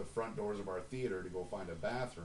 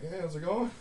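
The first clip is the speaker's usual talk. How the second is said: mock cheery greeting; 8 semitones higher, 4 dB louder than usual. Performers greeting him again.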